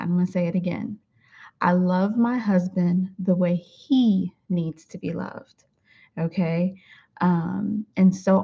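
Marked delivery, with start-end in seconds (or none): 1.6-5.6 "my" leaned on, slow and deliberate; stress on my. Shown as a demonstration. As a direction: lean on the word "my", each word placed. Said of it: "And I wanna emphasize that".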